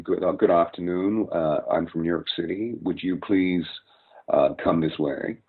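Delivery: put-on older American voice, New York, unforced and open; polite older New York American greeting; older New York speech. Shown as a demonstration. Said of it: "whereas you would hear".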